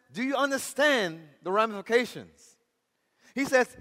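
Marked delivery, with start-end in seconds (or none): 0.1-2.6 acted judge with raised pitch; imitating an indignant official; stern warning. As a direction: press the threat on the convert. Judge threatens the convert.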